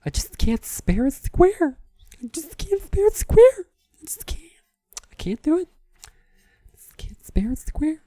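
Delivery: very high-pitched, drawn-out squeak; high falsetto refusal, slowly stretched; put-on sitcom character voice. Quoting Seinfeld line about sparing a square, squeaky high falsetto.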